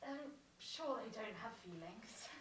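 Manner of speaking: whispered under the breath; whispered aside. Acted. Margaret whispers aside about the puppets. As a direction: mutter it so he won't hear.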